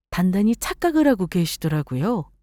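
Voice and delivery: ordinary delivery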